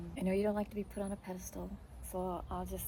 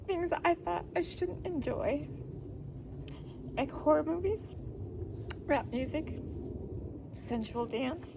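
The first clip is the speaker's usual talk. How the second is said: emotional. Real, not acted. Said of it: "I'm just emotional".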